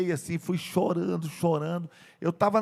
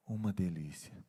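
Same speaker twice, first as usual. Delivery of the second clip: tender white lie; 10 semitones lower, 7 dB quieter than usual. Acted. Grandmother covers up the mishap.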